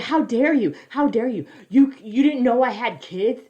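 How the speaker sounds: mocking a family scolding police at their door; mock indignation. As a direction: act wounded and self-righteous. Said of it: "they're like".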